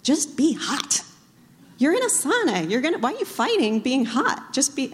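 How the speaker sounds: lightly mock his calm advice; imitating husband. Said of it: "and he's like".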